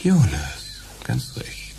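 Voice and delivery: whispered confirmation. Acted. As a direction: hush it, all discretion. Undertaker softly acknowledges.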